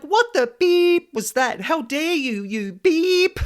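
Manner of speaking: how dare you, shouted in mock fury; irate outburst. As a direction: snap at the invisible attacker in outrage. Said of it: "My friend's never seen me so irate".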